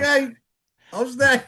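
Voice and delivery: very high, cowed mock reply; hammed-up high-pitched submission; retold meek compliance. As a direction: give in like a scolded child.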